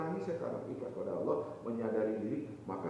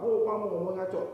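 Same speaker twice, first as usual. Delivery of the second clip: irritable snap; 7 semitones higher, 6 dB louder than usual. Acted. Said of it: "yang biasa marah-marah".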